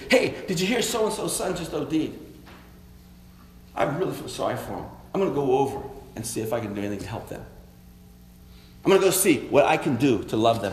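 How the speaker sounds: hushed, sincere offer to go help a grieving family; compassionate, eager to help. Shown as a demonstration. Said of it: "Compassionate is".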